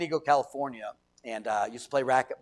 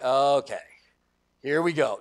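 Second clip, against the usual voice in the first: easygoing, accepting okay; simple, unfussy agreement; willing compliance; 4 dB louder, slower than usual. Acted. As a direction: go along with it readily. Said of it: "two different tones, two different".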